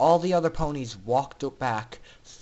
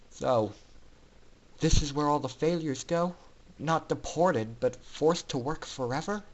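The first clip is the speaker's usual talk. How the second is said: sobbing quietly. Acted. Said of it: "Orion sobbed quietly".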